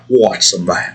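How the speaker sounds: lightly attempted deep Australian accent. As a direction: have a rough go at a burly Australian. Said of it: "He has a deep voice, sounds Australian".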